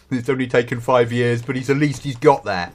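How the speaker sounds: a quick Aussie accent impression; Australian accent. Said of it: "said in an Australian accent".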